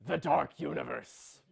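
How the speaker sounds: portentous franchise announcement; mock-grand title. Execs naming their monster franchise, mock-portentous. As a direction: intone it like a movie title.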